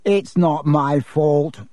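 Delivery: retort. Acted. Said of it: "retorted Draco".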